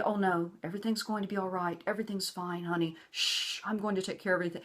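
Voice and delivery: soft mock soothing narcissist; lightly voiced placating narc; narcissist's reassurance. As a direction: imitate the fake sweet promise. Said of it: "if the narc is telling you".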